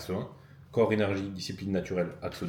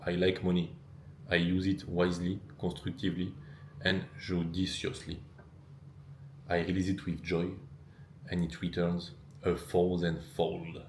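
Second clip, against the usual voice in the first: measured French-accented English mantra; deliberate French-accented English. Shown as a demonstration. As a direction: recite the affirmation in French-accented English, slowing at the end. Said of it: "Mon accent anglais est parfait".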